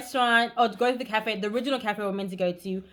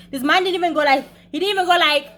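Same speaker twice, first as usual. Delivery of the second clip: rising disbelief; 7 semitones higher, 7 dB louder than usual. Real, not acted. Building disbelief.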